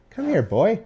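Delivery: high coaxing call; high pet-calling voice; calling the cat. Real, not acted. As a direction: coax the cat over.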